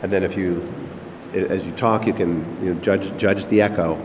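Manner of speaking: talking inside a resonant, echoing dome; natural room echo. Shown as a demonstration. Host demonstrating the dome's acoustics to a visitor, natural echo. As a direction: voice reverberating off the room. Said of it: "a very natural echo".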